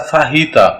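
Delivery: "फाहीता" with an h for the j. Shown as a demonstration. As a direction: put a clear h in the middle of "फाहीता". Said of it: "जे जो है ये एच की आवाज देगा". ("फाहीता" में ज की जगह ह)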